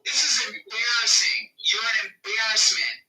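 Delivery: scolding him at full volume; berating shout. Real, not acted. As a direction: yell it at him in disgust. Berating the man on stage.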